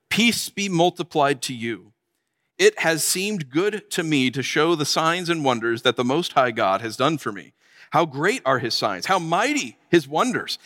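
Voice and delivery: measured, formal reading voice; scripture reading. Acted. Preacher reads Nebuchadnezzar's proclamation to the congregation, measured and formal.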